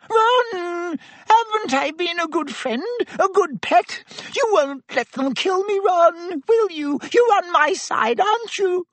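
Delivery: high, whining, desperate rat-man; squeaky pleading Pettigrew. Acted. Pettigrew begging his old friend Sirius, high whining plea. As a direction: beg like a cornered coward, high and thin.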